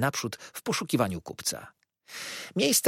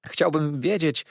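higher-pitched nervous request; frightened customer's hesitant voice; trembling timidity; 6 semitones higher than usual. A narrator's reading. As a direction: ask timidly while trembling. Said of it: "drżąc cały".

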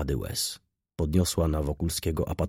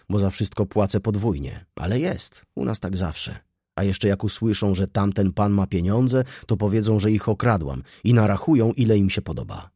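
a touch higher, building louder in complaint; lightly voiced aggrieved girl; 3 semitones higher, 4 dB louder than usual. Girl explaining her debt to Wokulski, mildly aggrieved. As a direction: list the injustices as the aggrieved girl.

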